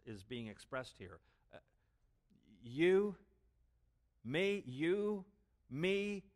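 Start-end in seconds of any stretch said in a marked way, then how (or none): 2.6-6.2 higher and louder, incredulous You, me; astonished disbelief, pitched up. Shown as a demonstration. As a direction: sound stunned that he'd do this. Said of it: "It emphasizes Peter's astonishment".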